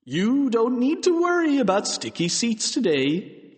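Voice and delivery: high, swooping principal's address; Mister Krupp. A narrator's reading. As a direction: address the assembly from the microphone. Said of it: "standing up at the microphone".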